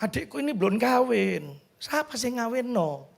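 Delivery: soft, pleading with mother; understated imploring murmur, voiced; retold tearful whisper. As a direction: imitate a hushed, tearful plea. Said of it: "Saya nangis ya, saya bisik".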